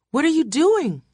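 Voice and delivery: high, frantic cry; screaming. A narrator's reading. Wife struggles to stand, screaming protest. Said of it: "Margaret was screaming again".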